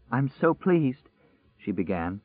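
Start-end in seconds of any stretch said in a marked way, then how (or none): 0.1-1.1 overwhelmed. Acted. Overwhelmed woman meets survivors.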